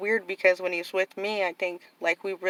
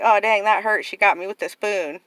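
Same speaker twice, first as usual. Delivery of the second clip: louder retold exclamation; mock hurt outcry; 2 semitones higher, 6 dB louder than usual. Kid reacting to mom's spoon, mock hurt outcry. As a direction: act out a stung kid's complaint. Re-enacts reaction to being spanked.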